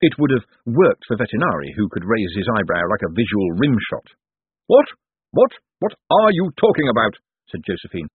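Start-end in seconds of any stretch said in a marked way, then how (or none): 4.7-7.2 high, staccato repeated what; exasperated disbelief. A narrator's reading. Josephine questions Cosmo's odd remark, exasperated disbelief. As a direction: splutter in disbelief, then demand an explanation.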